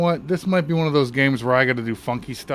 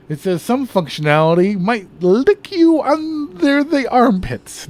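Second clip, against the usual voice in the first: joking fake reading; 10 semitones higher, 5 dB louder, slower than usual. Joking misreading of the screen.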